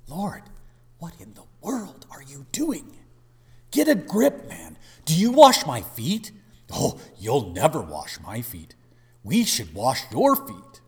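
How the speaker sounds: loud, high, incredulous Peter; Peter's protest. Acted. Preacher voicing Peter refusing the foot washing, incredulous. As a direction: cry out in disbelief at the foot washing.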